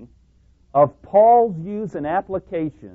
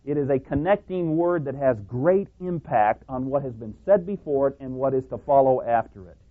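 usual speaking voice

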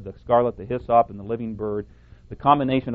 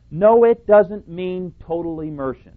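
TOTAL leaned on in a loud, raised quote; stress on total; 5 semitones higher, 6 dB louder than usual. Retold or imitated. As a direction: quote it forcefully, hitting "total". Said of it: "Emphasis on the word total here".

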